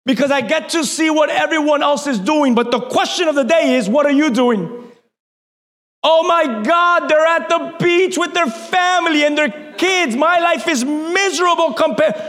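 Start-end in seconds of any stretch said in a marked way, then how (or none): 6.0-12.2 mock whining, higher pitched; hammed-up envy of someone else's life; envious complainer. Preacher mimicking a social media scroller, mock-envious wail.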